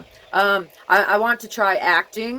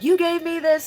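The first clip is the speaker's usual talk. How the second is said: much higher, imitating the daughter's outrage; imitating a daughter in mock disbelief; 10 semitones higher than usual. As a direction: squeak it out like an indignant daughter. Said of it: "she's like".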